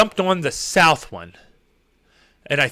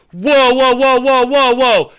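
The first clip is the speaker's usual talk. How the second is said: higher, rapid-fire alarmed repetition; mock alarm; 4 semitones higher, 4 dB louder, slower than usual. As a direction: re-enact a driver's sudden alarm. Re-enacts spotting oncoming cars.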